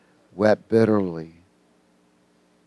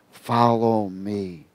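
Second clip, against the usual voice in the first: gentle call; 3 semitones lower, 4 dB quieter, much slower than usual. Acted. Jesus calls Peter.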